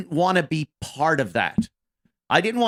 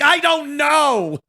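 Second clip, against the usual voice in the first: sheepish mock shrug; 9 semitones higher, 4 dB louder, slower than usual. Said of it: "And I'm like".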